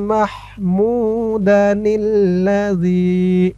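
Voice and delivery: slow, drawn-out melodic recitation. Shown as a demonstration. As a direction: recite it slowly, as a model to copy. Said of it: "teacher recites the correct reading". (ধীরে সুর করে তিলাওয়াত)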